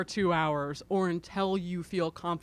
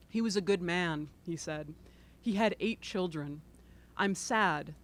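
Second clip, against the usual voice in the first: reading aloud. Acted. Author reads from her book.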